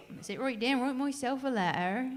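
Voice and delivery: a hint of Yorkshire accent on the title line; weak Yorkshire accent. Shown as a demonstration. Singer to audience, trying the song title in a mild Yorkshire accent. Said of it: "That wasn't very good".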